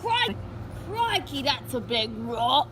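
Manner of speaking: crikey. Acted. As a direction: gasp in Aussie showman delight. Aussie host exclaiming at rock.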